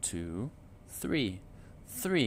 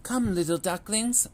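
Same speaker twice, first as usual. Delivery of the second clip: high, louder call to the ducklings; sing-song calling mother duck; 9 semitones higher, 5 dB louder than usual. A narrator's reading. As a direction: call them over, mama duck. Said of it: "Mama called".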